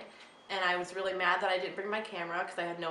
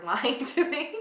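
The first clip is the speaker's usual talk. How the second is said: retold accusation breaking into a laugh; mock outrage, rising and laughing; mock indignation, laughing; 6 semitones higher, 6 dB louder, much slower than usual. Fiancée retelling how she scolded him before the proposal, laughing mock indignation.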